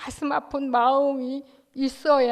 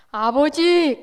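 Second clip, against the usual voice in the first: crying out Father; 3 semitones higher, 6 dB louder, much slower than usual. Acted. Believer cries out to Father.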